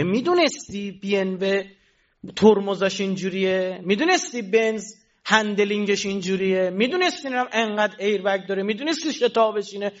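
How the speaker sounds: high, rhythmic run of rhetorical questions; insistent preaching. Real, not acted. Preacher mimicking a car fan listing its merits, insistent and high.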